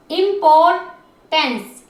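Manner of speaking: इंपॉर्टेंस very slowly, part by part; drawn-out, segmented इंपॉर्टेंस; syllable by syllable. Shown as a demonstration. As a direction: sound out each piece of इंपॉर्टेंस. Teacher splits word into syllables.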